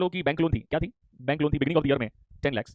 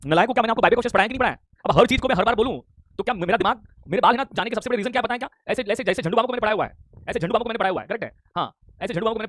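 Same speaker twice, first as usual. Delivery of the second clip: mock exasperated scolding; 4 semitones higher than usual. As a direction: play the fed-up teacher scolding the class. Teacher scolds students in mock exasperation. (झल्लाए हुए teacher की डांट, ऊँची आवाज़ में)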